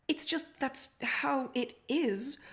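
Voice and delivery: slow, whispered, frightened reply; trembling voice. Acted. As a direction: whisper it out of fear, slowly. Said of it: "in a trembling voice".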